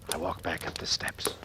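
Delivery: slow, unvoiced whisper; slow hushed whisper while sneaking upstairs. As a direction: creep the words out slowly. Sneaking back up the stairs.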